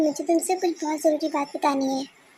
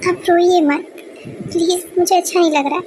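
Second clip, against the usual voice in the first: anguished plea; 4 dB louder than usual. Acted. Son pleads with crying mother.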